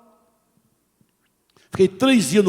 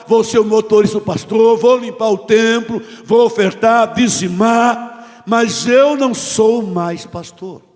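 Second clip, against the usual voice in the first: louder, slow, anguished shouting; retold shout at God; 3 semitones higher, 5 dB louder, slower than usual. Pastor shouting his resignation to God, anguished and loud. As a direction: hammer out each promise in despair. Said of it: "E eu gritei".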